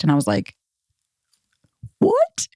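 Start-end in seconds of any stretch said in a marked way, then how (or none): 2.0-2.5 a whispered, very high "what" that rises; stunned whisper. Retold or imitated. Reading the copy-paste breakup text, stunned whispered what. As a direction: gasp it out in disbelief.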